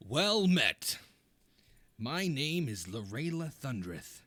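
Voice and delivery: bold tavern captain, lightly voiced. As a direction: greet them like a brash captain.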